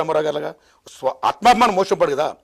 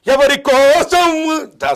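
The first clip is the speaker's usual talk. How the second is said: film dialogue; 11 semitones higher, 10 dB louder, much slower than usual. Retold or imitated.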